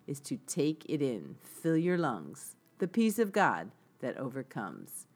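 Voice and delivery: gentle spoken reading of song lyrics. Shown as a demonstration. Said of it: "read the lyrics to it".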